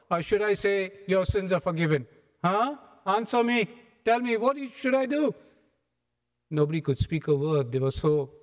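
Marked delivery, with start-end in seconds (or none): 0.1-5.3 higher, pressing challenge; challenging. Retold or imitated. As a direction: corner them with the question. Jesus challenging the scribes.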